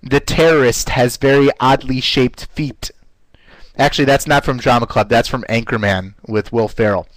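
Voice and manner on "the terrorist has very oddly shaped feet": crisply enunciated drill line; over-articulate every word; careful diction exercise; enunciation drill. Shown as a demonstration. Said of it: "we would say".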